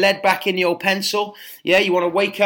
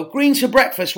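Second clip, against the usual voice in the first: high, mock-disbelieving question; imitating baffled doubters, pitch jumps up; incredulous people; 7 semitones higher than usual. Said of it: "or they go".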